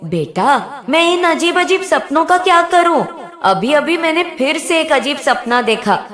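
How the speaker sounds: put-on the old nurse coaxing the demon back to calm; lovingly. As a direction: soothe the angry demon like a mother. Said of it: "फिर बड़े प्यार से बोली".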